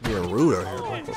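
talking through a mouthful of liquid; gargling mid-sentence, slow; while gargling. Real, not acted. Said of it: "sorry for the gargling all up in the mic".

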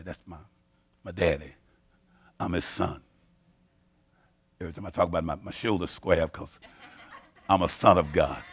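soft, low, close to the mic; tender quiet sermon voice; hushed intimate preaching. Real, not acted. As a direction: drop to a near hush and savour it.

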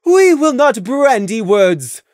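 brisk. A narrator's reading. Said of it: "Luna said briskly".

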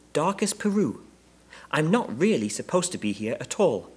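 high little bear voice; small bear, confiding. A narrator's reading. Bear telling the Browns where it comes from, confiding. Bear's voice.

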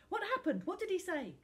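high, loud, excited questions; eager questioning. Acted. Finn's friends run up for news, excited.

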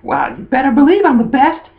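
high, boastful girl imitation; Dawn. Girl taking the compliment at face value, high mock boasting. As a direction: boast in a squeaky put-on voice. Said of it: "and Dawn was like".

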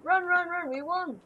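high, loud victory cheer; excited shouting. Real, not acted. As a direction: yell it out in triumph. Game won, cheering.

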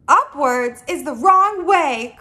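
loud, slow correction; mildly exclaimed, drawn-out protest; emphatic cry. Acted. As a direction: insist on it word by word. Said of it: "cried the B F G".

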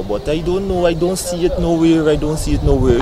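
loud, rising lost-and-flustered plea; flustered complaint. Acted. Lost student asking for the theater, loud fluster.

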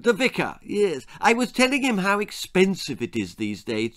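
high lady's chatter; resume the gossip in a high voice; chatty society lady. A narrator's reading. Lady de Trop resumes her story.

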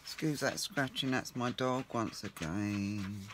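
slightly hoarse, croaky. Real, not acted. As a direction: speak through a croaky throat. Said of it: "Excuse my croaky voice".

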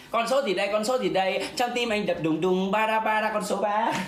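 lô tô caller chanting the numbers; bingo caller. Pretend. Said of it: "dẫn mày đi coi lô tô".

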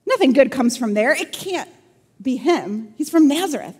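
dismissive, skeptical retort; cynical, sarcastic. Acted. Nathanael doubts anyone good comes from Nazareth, sarcastic. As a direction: scoff at the news. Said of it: "in the most cynical, sarcastic tone".

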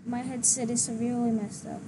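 muffled, like talking in a tunnel; echoing tunnel. Real, not acted. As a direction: tunnel echo on the mic. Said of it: "Is that why you sound like you were in a tunnel?".

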